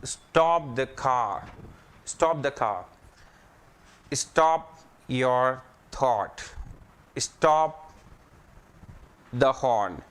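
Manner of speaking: slow, firm repeated commands; slow drill. Shown as a demonstration. Teacher drilling stop commands for the class. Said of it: "Now sentence is that".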